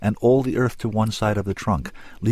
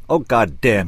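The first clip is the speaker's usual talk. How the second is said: startled, slightly louder bark; mildly barked oath; barked curse; 6 dB louder than usual. A narrator's reading. Man startled while biting his tongue, a mild bark. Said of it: "he barked".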